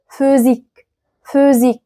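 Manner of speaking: Physik with an ordinary F at the start. Shown as a demonstration. Teacher modelling ph for learners, F sound in Physik. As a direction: say Physik as "füzik". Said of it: "ال بي إتش بتتنطق س، حرف اف عادي".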